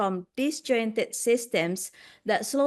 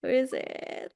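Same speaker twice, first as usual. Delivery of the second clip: whispered; 2 semitones higher, 5 dB quieter than usual. Real, not acted. Waiting on the spinning wheel.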